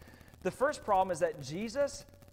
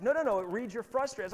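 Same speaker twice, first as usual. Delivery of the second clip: imitating sister; 7 semitones higher, 6 dB louder than usual. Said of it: "It's like".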